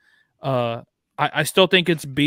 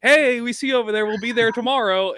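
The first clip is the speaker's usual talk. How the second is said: mock taunting; 7 semitones higher, 4 dB louder than usual. Mocking rival teams' taunt.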